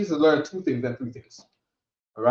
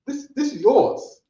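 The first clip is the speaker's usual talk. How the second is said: "This, this is yours" higher and slow; demo statement; 10 semitones higher, slower than usual. Shown as a demonstration. Teacher modelling the statement for the student. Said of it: "so I could say".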